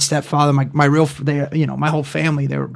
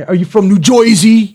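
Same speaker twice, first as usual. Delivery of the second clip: mock Jersey; 2 semitones higher than usual. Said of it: "when people do, uh, like".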